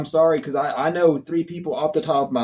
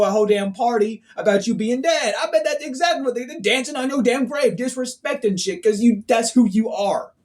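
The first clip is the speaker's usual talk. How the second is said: heated rant; 6 semitones higher than usual. Real, not acted. Mocking rant.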